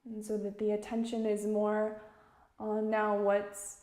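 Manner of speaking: calm, measured meditation guide; unhurried instruction, phrase by phrase; guided meditation. Real, not acted. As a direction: guide listeners gently with long pauses.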